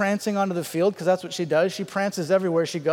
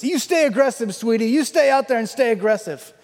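mock sideline urging; 3 semitones higher than usual. Retold father urging his daughter on.

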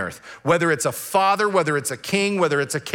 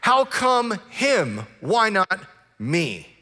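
whining at God; 5 semitones higher than usual. Retold or imitated. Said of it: "Rustin Rossello says".

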